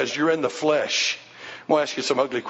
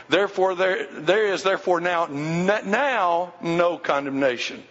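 now held and stressed. Shown as a demonstration. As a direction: lean hard on the word now. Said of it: "put emphasis on the word now".

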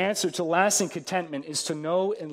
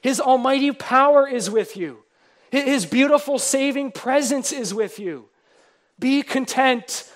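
fervent preaching; 4 semitones higher, 4 dB louder than usual. Real, not acted. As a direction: lift the church with each word. Preacher rising in fervor.

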